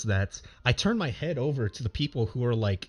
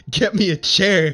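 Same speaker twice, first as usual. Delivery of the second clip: weak, strained plea for help; mock dying croak, slowed down; hammed-up dying plea; 6 semitones higher, 7 dB louder than usual. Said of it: "in my dying voice".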